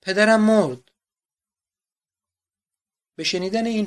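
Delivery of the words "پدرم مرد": high, loud wail of grief; a daughter shrieking that her father is gone; anguished scream. A narrator's reading. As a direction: scream it out as she finds him dead. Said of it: "کنتس فریاد کشید".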